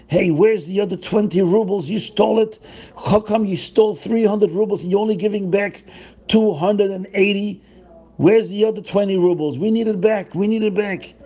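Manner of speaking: hammed-up angry mob demanding twenty rubles; yelling crowd. Crowd yelling at Zusha for missing twenty rubles, mock angry. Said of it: "they start yelling at him".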